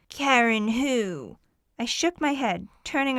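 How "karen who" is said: hard, slow put-on man's voice; a lady trying to sound like a man, slowly; fake man's voice. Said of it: "Her voice turned hard and lowered, as if she were trying to sound like a man".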